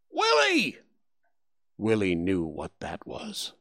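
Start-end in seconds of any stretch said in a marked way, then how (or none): 0.1-0.8 very high distant call; a father yelling from afar for his son; papa calling out. Acted. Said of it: "he always yelled".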